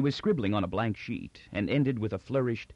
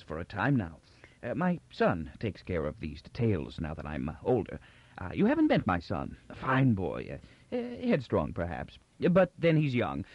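put-on doddering old Emperor, gracious. Old Emperor welcomes visitors from outer provinces, gracious and doddering. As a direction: ramble kindly like a forgetful old ruler.

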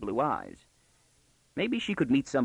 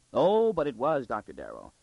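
gleeful contradiction. Acted. Visitor telling on the girl to her father, gleefully. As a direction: pounce on the denial with relish.

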